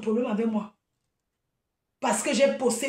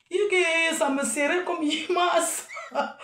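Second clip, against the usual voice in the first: en riant; 4 semitones higher, slower than usual. Real, not acted. Rit en enlevant sa perruque.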